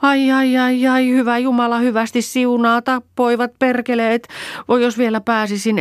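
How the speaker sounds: put-on high, loud old woman crying out in agony; pained shouting. A narrator's reading. Injured old woman cursing her attackers, loud high pained cries. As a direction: howl and curse through the pain. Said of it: "tuskaisen näköisenä ... huuti".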